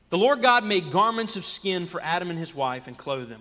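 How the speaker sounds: calmer, deliberate reread; slowed down. Real, not acted. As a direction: take the verse again, steady and measured. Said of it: "wait, let me slow down".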